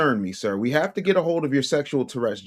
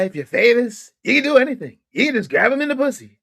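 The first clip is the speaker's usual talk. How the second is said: lightly put-on famous guy, pitched up; higher-pitched mocking imitation; mock quote of that guy; 9 semitones higher, 3 dB louder than usual. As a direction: raise the pitch to parody his boast. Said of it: "You sound like that guy".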